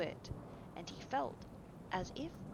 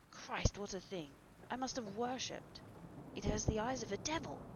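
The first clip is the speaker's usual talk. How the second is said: raised, horrified outcry; aghast, higher-pitched voice; appalled exclamation; 4 semitones higher than usual. Acted. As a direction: recoil in horror at the sight. Basil appalled by the portrait.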